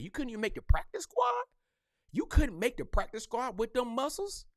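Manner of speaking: comic roast taunt. Pretend. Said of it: "I'm a comedian... Like".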